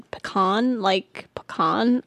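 pecan said as puh-KAHN, rising; questioning puh-KAHN. Shown as a demonstration. Querying the other pronunciation.

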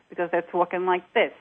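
light New York accent; a touch of New York accent. Shown as a demonstration. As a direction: talk like a New Yorker. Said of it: "students here from New York".

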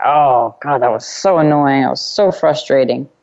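mildly grumpy imitation; mock curmudgeon grumble. Host mimicking her constricted, frustrated self, mild curmudgeon grumble. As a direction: grumble it with a frown, lightly acted. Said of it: "to kind of this curmudgeon frown".

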